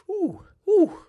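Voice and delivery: high, loud startled ooh; surprised ooh. Real, not acted. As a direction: react as if caught off guard. Reacting to board expectation.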